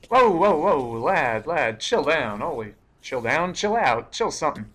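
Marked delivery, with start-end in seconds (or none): 0.1-2.4 panicked whoa. Real, not acted. Calming a charging mob.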